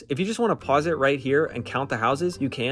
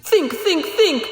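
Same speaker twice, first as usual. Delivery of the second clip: thinking hard; 3 dB louder, much slower than usual. Acted.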